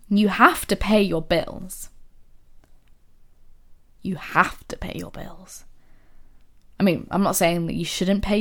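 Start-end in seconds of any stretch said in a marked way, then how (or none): 0.1-1.9 reluctant obligation. Shown as a demonstration. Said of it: "The tone is, oh God, it's so different". 4.0-5.6 whispered. Shown as a demonstration. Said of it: "The tone is, oh God, it's so different".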